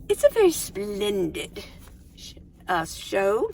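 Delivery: playful, lightly put-on English accent. Praising an English TV show, mock English accent. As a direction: try on an English accent, halting near the end. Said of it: "starting to get the English, uh, accent".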